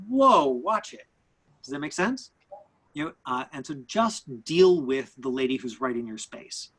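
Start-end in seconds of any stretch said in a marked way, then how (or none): 0.1-1.1 startled "whoa", pitched up and drawn out; slow, high warning blurt. Acted. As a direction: react as if someone stepped too close. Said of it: "there's that moment of like".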